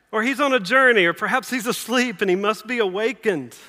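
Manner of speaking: high-pitched taunting recital; mocking. Elijah suggesting excuses for the absent god, mocking. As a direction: start high and loud, needling them. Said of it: "Elijah's mocking him".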